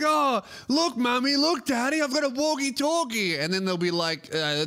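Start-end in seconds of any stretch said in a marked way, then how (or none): 0.0-3.4 put-on higher childlike excitement; excited toddler. Toddler showing parents his walkie-talkie, higher and eager. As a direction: show off a new toy like a toddler. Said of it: "that little toddler is gonna be like".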